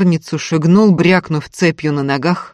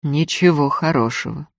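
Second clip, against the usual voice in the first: хмуро. Acted. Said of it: "хмуро отозвался Иверснев".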